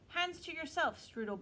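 high, loud sneering pixie; a cheeky little creature snapping; rude pixie. Acted. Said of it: "the pixie said".

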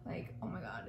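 breathy hushed oh my God; awed whisper. Real, not acted. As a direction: whisper it in awe at the glow. Admiring the product, awed aside.

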